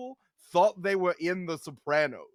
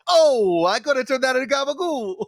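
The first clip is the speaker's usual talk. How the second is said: loud, hammy Jersey mobster voice; Italian American accent; 5 semitones higher, 9 dB louder than usual. Retold or imitated. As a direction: shout it like a Sopranos wiseguy.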